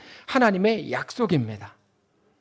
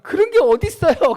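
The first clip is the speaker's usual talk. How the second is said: much higher, louder whiny protest; hint of a wailing child; 10 semitones higher, 6 dB louder than usual. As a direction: complain it's unfair.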